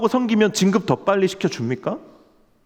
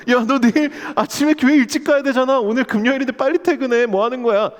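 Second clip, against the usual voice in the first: higher, brighter mock boss urging you home; imagined kind boss; 6 semitones higher than usual. 상사가 금요일에 일찍 퇴근하라고 재촉하는 목소리. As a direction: play a boss shooing you out early. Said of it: "이래 주던가요?".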